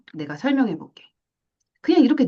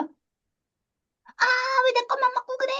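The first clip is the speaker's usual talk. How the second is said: put-on high, whining child voice; whiny kid complaint; 14 semitones higher, slower than usual. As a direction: whine like a wronged kid. (억울한 아이처럼 높게 징징대며)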